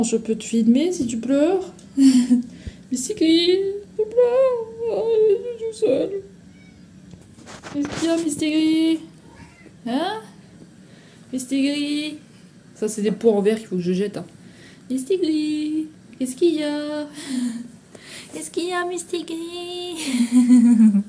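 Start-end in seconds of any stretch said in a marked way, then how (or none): 2.0-6.1 very high, slow, whiny little cat voice; crying cat voice. Pretend. 7.7-12.2 much higher cooing pet voice; high sing-song pet talk. Real, not acted. Coos to her cat. 14.9-21.0 much higher cooing pet voice; high sing-song pet talk. Real, not acted. Coos to her cat.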